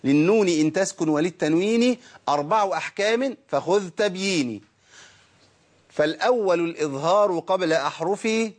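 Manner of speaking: slow, measured verse recitation; reciting the verse. Shown as a demonstration. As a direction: recite it metrically to help memory. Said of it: "طب ما نقول المتن كده". (إلقاء المتن موزوناً ببطء)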